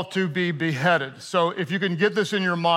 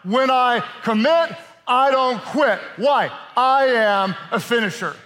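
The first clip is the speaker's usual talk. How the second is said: louder group chant, shouted; louder call and response; 3 semitones higher than usual. Acted. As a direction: shout the refrain back with the church. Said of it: "One more time, everybody".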